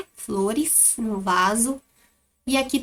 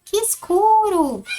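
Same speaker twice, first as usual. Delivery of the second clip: bem agudo, forte e lento; exclamação de espanto; 9 semitones higher, 6 dB louder, slower than usual. Shown as a demonstration. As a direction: exclama com espanto no escuro. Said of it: "como é que a Pro leu". (espanto arrastado e agudo)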